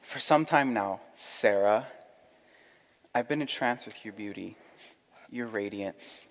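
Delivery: soft, earnest suitor; rehearsing a proposal. Acted. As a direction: court her gently and sincerely. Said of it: "I want to practice my proposal".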